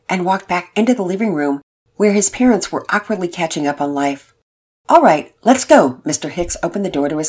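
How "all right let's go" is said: put-on higher, eager boy voice; a hopeful kid pleading with his mom; teen son. Son asking his mother, higher eager boy voice.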